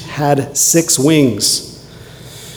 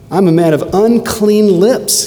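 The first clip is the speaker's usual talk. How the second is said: anguished cry; 7 semitones higher, 4 dB louder than usual. Acted. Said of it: "he says".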